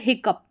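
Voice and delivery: "हिकअप" with a final p sound; "ough" as up. Shown as a demonstration. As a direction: say "हिकअप" ending in "up". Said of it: "अप करके आ रहा है".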